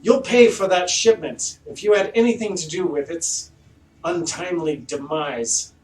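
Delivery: high, loud haughty noble voice; pompous mayor. Acted. Mayor accusing the party of ruining his silk, haughty and loud. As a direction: look down your nose at them. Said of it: "he's like".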